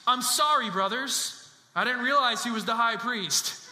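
punched, mock-sorry delivery; sarcastic apology. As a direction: apologize without meaning a word of it. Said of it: "Many scholars believe he's being sarcastic".

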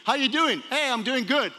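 high-pitched phone small talk; put-on cheerful tone. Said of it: "they know the tone of my voice".

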